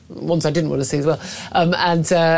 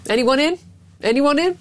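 mock rallying call; 9 semitones higher than usual. Mock call for crowdfund volunteers.

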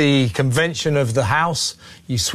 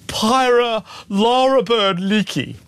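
mock sobbing laugh; 6 semitones higher, slower than usual. Host repeats name with mock cry.

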